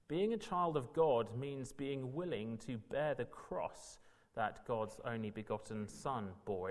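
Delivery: usual speaking voice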